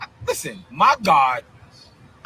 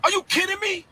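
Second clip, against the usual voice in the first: incredulous; 12 semitones higher than usual. Real, not acted. Outraged disbelief at prophets.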